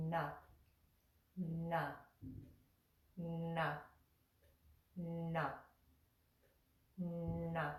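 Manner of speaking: na with the tongue curled back on the palate; retroflex na. Shown as a demonstration. Teacher demonstrating retroflex na to students. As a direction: na coming from a little cave at the back. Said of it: "sounds like it's coming from a little cave".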